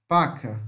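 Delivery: Paca with strong first syllable, weakened last A; weak final A. Shown as a demonstration. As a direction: stress the start of Paca and let the final A fade. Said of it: "o final das palavras no português é um pouco mais fraco".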